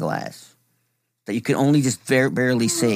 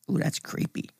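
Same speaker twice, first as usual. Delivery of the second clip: whispered; 4 semitones higher, 9 dB quieter than usual. Real, not acted. Reacting to ghost story.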